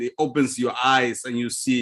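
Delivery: ordinary talk, nothing marked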